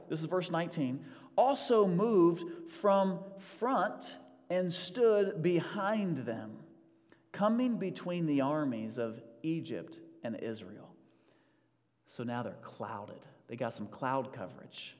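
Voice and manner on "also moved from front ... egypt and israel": very slow, weighty Bible reading; scripture reading. Acted. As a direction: lay each word down solemnly. Reads scripture slowly.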